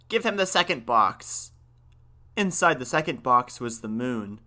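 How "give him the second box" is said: put-on high, urgent plea of an old man; exasperated grandfather crying out. A narrator's reading. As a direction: call it out in mild panic. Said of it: "cried the old man".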